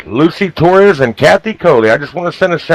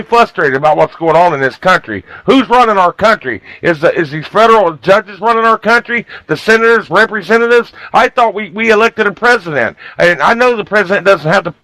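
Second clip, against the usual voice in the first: raised pitch, heated radio rant; worked-up anger; 4 semitones higher than usual. Real, not acted. Radio host ranting to listeners about federal judges, worked up. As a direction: let the frustration climb as you go. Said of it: "Tonight, I am ticked".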